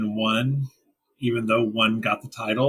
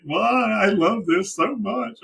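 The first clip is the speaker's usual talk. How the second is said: gushing delight; 8 semitones higher, slower than usual. Retold or imitated. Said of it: "I was like".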